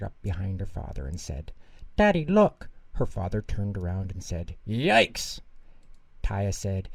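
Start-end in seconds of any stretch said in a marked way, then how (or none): 1.9-2.7 put-on high, loud eager shout of a little girl; excited call. Child showing her father treats. 4.7-5.4 high, sudden shocked cry; startled yelp. Acted. Father turns and sees cart.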